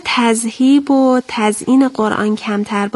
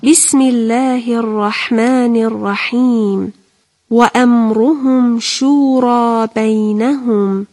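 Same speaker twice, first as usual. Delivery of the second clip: measured, drawn-out Arabic recitation; Quran recitation. Real, not acted. Teacher opening the verse for pupils, measured Quran recitation. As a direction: recite slowly with long vowels.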